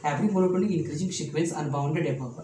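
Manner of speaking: slow and deliberate, word by word; slow dictation. Shown as a demonstration. Teacher dictating a theorem to students, slow and deliberate. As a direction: spell it out slowly for notes.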